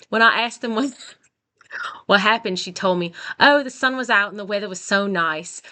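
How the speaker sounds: amateur Australian accent, close to laughing. Shown as a demonstration. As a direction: try an Australian accent, nearly cracking up. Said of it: "try to read this with an Australian accent".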